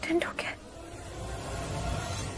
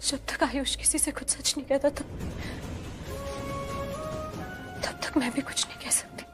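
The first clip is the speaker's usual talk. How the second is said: tearful. Acted. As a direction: cry through the confession. Tearful monologue alone.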